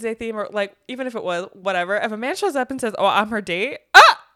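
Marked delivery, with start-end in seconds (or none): 3.0-4.2 swooning squeal. Real, not acted. Gushing to cohost about the date line, loud excited squeal.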